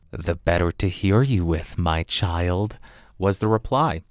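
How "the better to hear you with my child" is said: a hint of a lower, sly wolf; wolf playing granny, slightly low; lightly lowered crafty wolf; wolf's voice. Wolf replies as grandmother.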